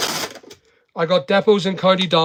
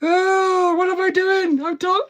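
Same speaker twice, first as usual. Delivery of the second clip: high mock wail at his own blunder; a squeaky flustered cry of frustration; slower than usual. Real, not acted. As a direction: whine it out, caught messing up.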